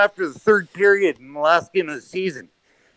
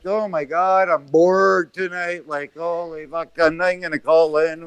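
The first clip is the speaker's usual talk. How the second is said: bored and upset; 3 semitones lower than usual. Retold or imitated. Caller imitating the host's low mood, bored and deflated. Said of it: "you look so upset".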